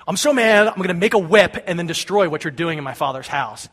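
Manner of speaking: fired-up, loud opening outburst; animated retold anger; mock angry. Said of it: "He's mad".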